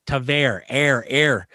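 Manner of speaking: Tavares with air in the middle; friends' pronunciation. Retold or imitated. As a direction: stretch the air sound in Tavares. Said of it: "all my friends at the Islanders were telling me".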